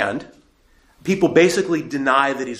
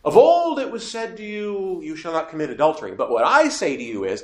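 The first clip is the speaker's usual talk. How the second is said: mildly intoned authoritative teacher; preaching like Jesus; 4 semitones higher than usual. Retold or imitated. Preacher voicing Jesus's sermon to the crowd, lightly lofty. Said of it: "he preached it like this".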